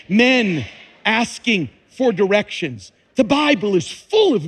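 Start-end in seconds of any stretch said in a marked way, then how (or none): 0.1-2.9 louder, punched repeat of the gag; louder punchline. Acted. Preacher repeating the joke for the women, louder and grinning. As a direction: hit the joke again for the women. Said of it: "One more time".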